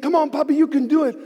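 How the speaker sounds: a small cheer from the roadside; cheering kids. Retold or imitated. Kids cheering their dad on the run, high light cheer. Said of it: "He said".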